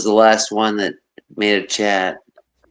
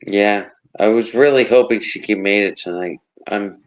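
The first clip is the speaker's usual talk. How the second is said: glitchy robotic connection. Real, not acted. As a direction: voice breaking up like a robot. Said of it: "Wow, you came out robotic".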